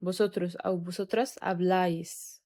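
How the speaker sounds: slow, careful, accent on the final syllable of habláis; slow drill. Shown as a demonstration. Teacher drilling vosotros habláis slowly. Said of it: "عشان الأسنتو".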